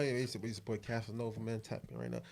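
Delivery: low, soft Casanova voice; sexy smooth voice. Retold or imitated. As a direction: purr it like a smooth talker. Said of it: "I used to say like this".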